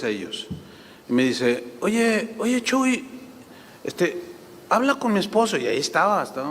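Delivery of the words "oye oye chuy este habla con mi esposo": a higher, lightly voiced pleading wife; imitating the wife. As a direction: plead like a worried wife asking the pastor for help. Pastor's wife asks for help. (la esposa del pastor pidiéndole a Chuy que hable con su marido, voz suplicante)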